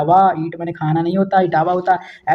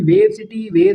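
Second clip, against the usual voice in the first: sudden squeak; 14 semitones higher, slower than usual. Acted. Wave sound mock.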